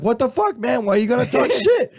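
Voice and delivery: high, loud fake outrage, laughing; mock indignant. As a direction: play it up as the wronged tough guy. Friend acting falsely accused.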